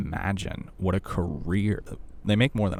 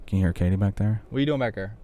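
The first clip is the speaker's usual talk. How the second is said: gentle teasing; 2 semitones higher, 4 dB louder, faster than usual. Real, not acted. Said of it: "just messing with you".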